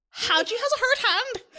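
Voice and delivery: put-on Jamaican accent. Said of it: "Okay, I'll go again".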